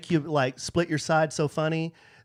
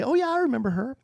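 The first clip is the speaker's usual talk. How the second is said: retold recognition; 11 semitones higher, faster than usual. Acting his own retold reaction.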